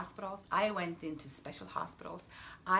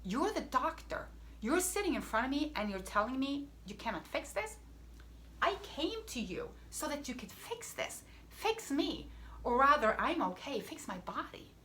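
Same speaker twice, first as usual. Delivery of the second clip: frustrated plea; 4 semitones higher than usual. Retold or imitated. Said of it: "I was so frustrated".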